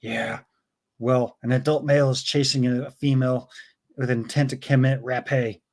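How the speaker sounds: quiet, deadpan movie-detective impression; rough amateur take on an unbothered cop; Dirty Harry. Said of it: "I apologize for my, uh, Dirty Harry accent".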